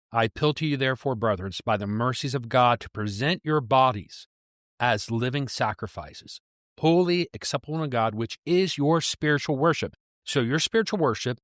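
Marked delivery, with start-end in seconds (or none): 0.1-9.9 measured reading with lifted key phrases; scripture reading. Acted. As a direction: read the verse out to teach it. Reads scripture aloud.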